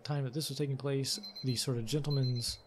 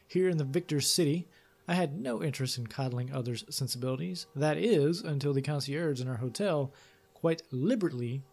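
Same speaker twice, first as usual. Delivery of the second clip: measured, lively storytelling read; story narration. A narrator's reading. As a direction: read it like an adventure tale. Reads game text aloud.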